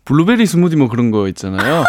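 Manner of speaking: Daegu intonation on 블루베리 스무디; Daegu dialect. Shown as a demonstration. Guest showing the host a local example, Daegu dialect. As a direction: say 블루베리 스무디 with Gyeongsang pitch swings. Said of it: "대구 사투리를 요렇게".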